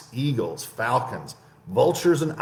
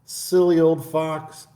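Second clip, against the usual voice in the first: high, slow, pleased mouse voice; sly mouse chuckling to itself; smug little mouse; 8 semitones higher than usual. Acted. Mouse mocks the fled fox.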